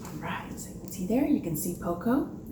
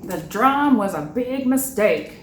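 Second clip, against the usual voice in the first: lightly voiced glum father; 6 dB louder than usual. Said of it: "said her father".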